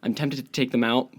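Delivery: slight lisp from braces. Real, not acted. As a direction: talk around braces in mouth. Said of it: "I'm lisping like crazy right now because I have my braces in".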